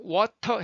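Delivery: water with a puff of air on the T; fully aspirated T in water; breathy T release. Shown as a demonstration. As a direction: push breath through the T in water. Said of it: "손바닥을요".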